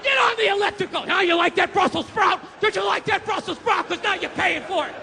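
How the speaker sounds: bossy chef. Retold or imitated. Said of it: "he's like".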